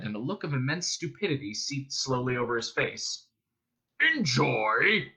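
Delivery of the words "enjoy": puzzled monster boom; booming Vogon. A narrator's reading. Guard baffled by his prisoner's question, booming. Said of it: "he boomed".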